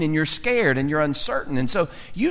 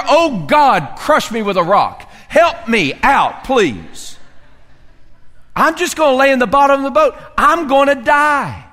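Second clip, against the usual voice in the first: hammed-up despairing plea; 6 semitones higher, 4 dB louder than usual. Mock prayer to be crushed.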